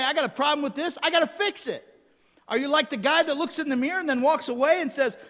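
high, loud, fired-up preaching. Real, not acted. Preacher challenging hearers to look into God's word, impassioned preaching.

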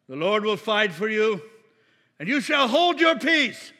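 loud epic-film Moses addressing multitudes; Charlton Heston. Acted. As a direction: declaim it grandly at full volume. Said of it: "So picture Charlton Heston".

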